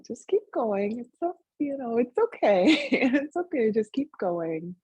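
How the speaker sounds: high, lilting reassurance; kind encouragement. Retold or imitated. Inner voice urging her on through chores, kindly reassuring. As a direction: coax gently, voice lifted high. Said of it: "voice of encouragement was there".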